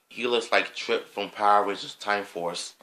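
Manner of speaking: voice cracking. Real, not acted. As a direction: voice cracks partway through. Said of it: "my voice cracked".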